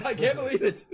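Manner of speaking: high, loud gleeful disbelief; mock giddy triumph. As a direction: celebrate like astonished winning monsters. Acting celebrating monsters.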